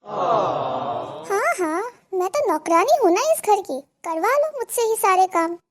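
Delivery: loud, wailing self-pity; fake crying. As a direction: sob it out, playing the victim. बहू रोने का नाटक. (रोने का नाटक करती बहू)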